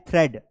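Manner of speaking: "थ्रेड" with a short e; thred for "थ्रेड"; correct pronunciation demo. Shown as a demonstration. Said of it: "इसे क्या पढ़ना है?". ("थ्रेड" में "ए" की आवाज़)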